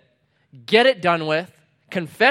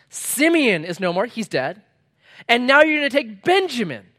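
a grieving father's raised lament, pitched higher; anguished Jacob; 4 semitones higher, 5 dB louder than usual. Acted. Preacher voicing Jacob, who is bereaved and protesting to his sons.

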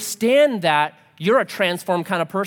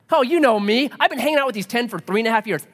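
boastful Peter; 5 semitones higher, faster than usual. Acted. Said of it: "what does Peter say".

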